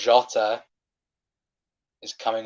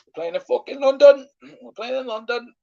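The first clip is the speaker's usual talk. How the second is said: high, loud and bitter; furious rant; 13 semitones higher, 4 dB louder than usual. Real, not acted. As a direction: rant at the ref in disbelief. Fuming about the referee.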